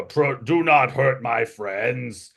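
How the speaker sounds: slow, otherworldly dragon voice; a hint of an ancient dragon; dragon speaks. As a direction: speak slowly as the illusory dragon. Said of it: "the dragon opens up its mouth and says".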